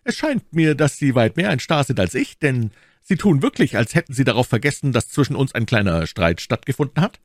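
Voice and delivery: put-on high, spirited young gallant; challenging young gallant. D'Artagnan reminding the Englishman of their quarrel, challenging.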